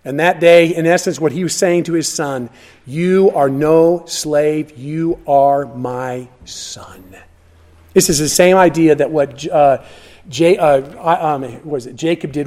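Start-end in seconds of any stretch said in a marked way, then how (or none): 2.9-7.2 tender father. Acted. Father's message to his son.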